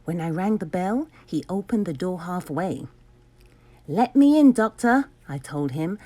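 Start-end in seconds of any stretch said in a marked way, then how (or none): 3.9-5.1 louder, higher firm demand. Acted. Hero demands entry from Doctor Brock, loud and firm. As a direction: insist at the door.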